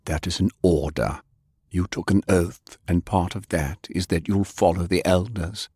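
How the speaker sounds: a stern elder giving orders. Acted. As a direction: lay down the law coldly. Elder orders Francis, cold authority.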